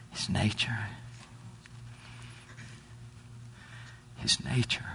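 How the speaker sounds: whispered, soft reveal; hushed. Acted. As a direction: drop to a near whisper on the answer. Hushed answer after rising lines.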